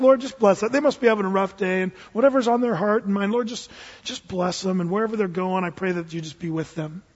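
forgiving murmured blessing; gentle prayer. Acted. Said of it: "No, no, no. You're like".

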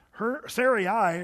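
Sarai drawn out slowly, each syllable clear. Shown as a demonstration. Preacher slowly sounding out Sarai for the church. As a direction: spell out Sarai slowly for the congregation. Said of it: "her name means princess".

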